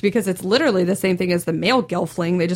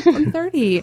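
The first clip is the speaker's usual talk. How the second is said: laughing protest at the teasing; 8 semitones higher, slower than usual. Real, not acted. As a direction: say it again through a laugh. Repeating age, laughing.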